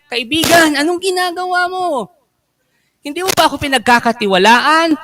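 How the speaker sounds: pleading host. Acted. Host confronting hoarding guests.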